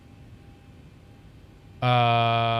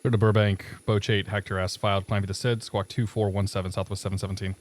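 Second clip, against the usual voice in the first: air traffic control radio; 3 semitones lower than usual. Real, not acted. Pilot clearance readback on radio.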